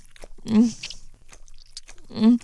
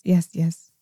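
ordinary talk

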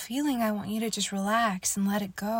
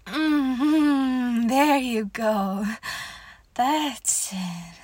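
excited encouragement; 6 dB louder, much slower than usual. Acted. Climax of intimate roleplay.

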